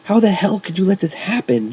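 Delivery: high-pitched angry demand; thundering. A narrator's reading. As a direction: thunder it in outrage. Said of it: "she thundered".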